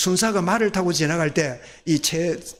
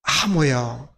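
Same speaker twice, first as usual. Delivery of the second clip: low Gyeongsang dialect "하모요"; 경상도 사투리 대답; 5 semitones lower, much slower than usual. Shown as a demonstration. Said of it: "우리 경상도 말로 뭐라고요".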